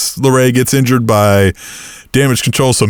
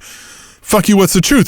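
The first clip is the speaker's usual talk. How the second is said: high, mock indignant outburst; 8 semitones higher, slower than usual. Retelling the weekly exchange, high mock indignation. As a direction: throw it back high and annoyed. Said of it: "Next week, he's like".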